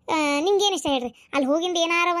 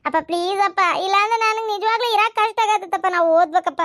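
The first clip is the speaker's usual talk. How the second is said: higher, urgent pleading; 4 semitones higher, 4 dB louder than usual. Acted. Daughter begging her father to let her study, pleading. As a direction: plead with rising distress.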